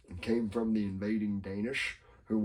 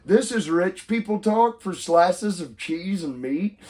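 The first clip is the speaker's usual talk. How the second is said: mock disbelief; 8 semitones higher, 5 dB louder, slower than usual. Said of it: "I'm like".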